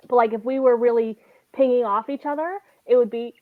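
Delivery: hiccuping between words; talking through the hiccups. Real, not acted. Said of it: "I have the hiccups".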